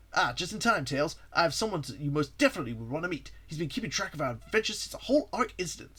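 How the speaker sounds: lightly voiced, upbeat hero; Sonic. Sonic introduces his friend to the visitor, lightly voiced hero.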